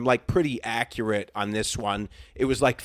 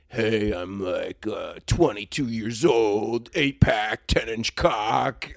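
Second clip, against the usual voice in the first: slow, drawn-out personal-ad voice; lightly put-on phone-line seduction, words stretched; imitated chat-line come-on; 2 semitones lower, slower than usual. Men advertising themselves on a chat line, imitated slow come-on.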